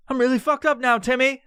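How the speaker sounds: high, squeaky mock alarm; panicked stoner. Stoned man confiding in imaginary Timmy, panicked. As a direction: squeal it like a comic confession. Redoing line to imaginary friend.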